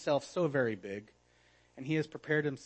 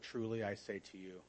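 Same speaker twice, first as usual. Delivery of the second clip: quiet aside; 6 semitones lower, 11 dB quieter than usual. Shown as a demonstration. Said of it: "That's what".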